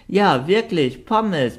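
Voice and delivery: hoch und begeistert gebellt; begeistert bellend. A narrator's reading. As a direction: voller Freude über die Pommes. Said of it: "bellte sie begeistert". (begeisterter Hund)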